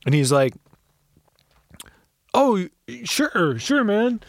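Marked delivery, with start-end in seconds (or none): 2.3-4.2 high whispered reply; imitating the cop's whispered agreement. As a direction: breathe it out like an eager cop. Cop replying softly.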